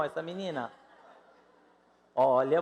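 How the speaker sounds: ordinary talk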